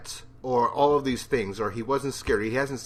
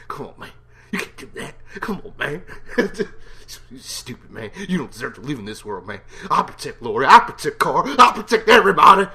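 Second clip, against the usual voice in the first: Shane impression; 3 semitones higher, 8 dB louder than usual. Reviewer mocking Shane's rant at Rick. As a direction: mimic Shane whining then yelling. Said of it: "This is Shane".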